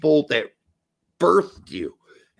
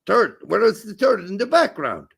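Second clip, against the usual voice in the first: higher, louder put-on German accent; comic German-accented English; 5 semitones higher, 3 dB louder than usual. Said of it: "you doing the German accent would be great".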